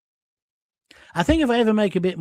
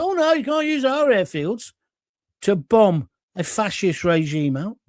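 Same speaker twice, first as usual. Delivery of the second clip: mock-fussy objection, pitched up; Keir Starmer. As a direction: parody a prim politician saying no. Mocks Starmer refusing the airfields.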